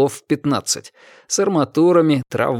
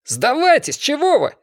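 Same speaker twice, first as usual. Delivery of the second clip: much higher shouted plea; a high urgent call; 14 semitones higher than usual. A narrator's reading. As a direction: shout up to the window in a hurry. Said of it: "крикнул Заяц".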